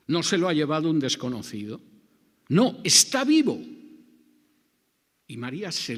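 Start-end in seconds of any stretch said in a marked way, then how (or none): 2.5-3.6 slow, much higher and louder; overjoyed exclamation. Acted. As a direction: burst out in amazed joy. Realising Jesus is alive.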